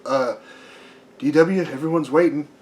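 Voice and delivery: lightly voiced goofy pilot calling up to his boss; Launchpad impression.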